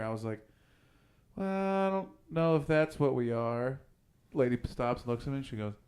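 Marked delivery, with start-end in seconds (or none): 1.4-3.8 slow, higher, awkwardly hedging; nervous. Retold or imitated. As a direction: imitate squirming under a border guard's question. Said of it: "You nervous?".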